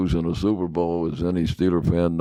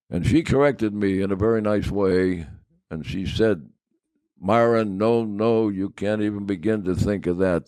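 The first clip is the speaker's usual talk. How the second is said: Myron's radio voice; 2 semitones higher than usual. Retold or imitated. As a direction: do the old sports-radio man telling his tale. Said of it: "this is the way he said it".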